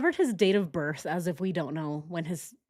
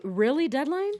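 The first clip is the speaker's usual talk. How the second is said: normal talking voice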